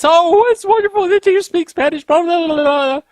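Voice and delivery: high, loud gushing woman's voice; gushing lady. Retold or imitated. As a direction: pitch up high and gush like an excited stranger. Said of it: "she launched into this".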